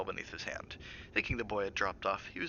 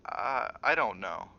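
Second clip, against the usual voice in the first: dazed; much slower than usual. Acted. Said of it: "shook his head slowly, dazedly".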